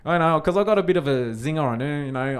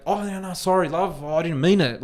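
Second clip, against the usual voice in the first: higher, put-on apologetic voice; mock apology; 5 semitones higher than usual. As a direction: sarcastically pretend to back down, pitched up. Mock apology he refused to give.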